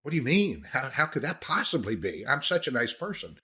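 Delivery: hammed-up "who, me?" protest; mock innocent surprise. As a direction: act taken aback, protesting innocence. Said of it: "they don't say it like that".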